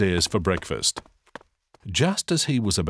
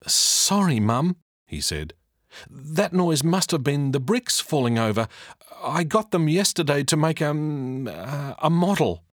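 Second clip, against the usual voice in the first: put-on higher, hesitant boy's voice; fibbing boy; 7 semitones higher than usual. Jack invents an excuse for his mum, hesitant. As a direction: make it up on the spot.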